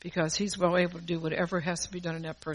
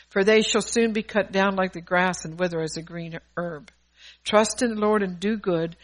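firm, louder psalm reading; psalm declamation; 5 dB louder than usual. Acted. Preacher reads a psalm of David to the congregation, firmly declaimed. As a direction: read the verses out with conviction.

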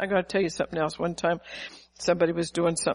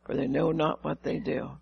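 tender forgiveness; 4 semitones lower, 5 dB quieter than usual. Retold or imitated. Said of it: "He said".

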